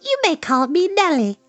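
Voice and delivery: high tiny-creature voice; third little spider. A narrator's reading. Third spider asking Wilbur for a name, small high voice. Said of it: "said the third spider".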